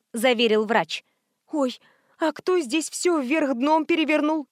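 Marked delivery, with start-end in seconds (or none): 1.5-4.5 high, shrinking frightened voice; a narrated housewife's frightened question, pitched up; cowering fearfully. A narrator's reading. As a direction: curl up in fear as you ask. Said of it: "сжалась в комок хозяйка".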